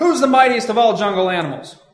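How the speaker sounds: booming, fierce, very loud roaring bellow. Narrating a fable where the lion confronts an ox: fierce bellow. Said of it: "fiercely bellowed".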